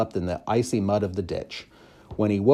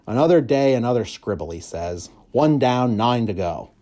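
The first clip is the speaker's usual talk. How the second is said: grumpy keeper; 3 semitones higher, 4 dB louder than usual. Acted. Grumpy keeper mocks drawings.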